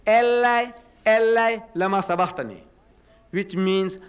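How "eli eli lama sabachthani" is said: Jesus crying out. Retold or imitated. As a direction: imitate an anguished call to God, strongest at the start. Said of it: "Jesus Christ cries out".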